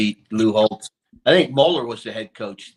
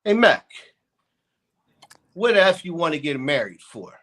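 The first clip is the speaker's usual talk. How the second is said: dad's voice pitched higher and louder; incredulous father, higher and louder; imitating dad; 3 semitones higher, 5 dB louder than usual. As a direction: call out to your son, exasperated. Dad voiced in retold story.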